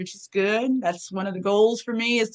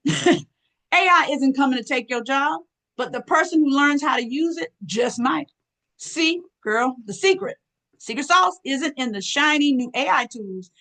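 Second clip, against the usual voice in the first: put-on sassy girlfriend voice; 3 semitones higher than usual. Shown as a demonstration. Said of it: "That's me".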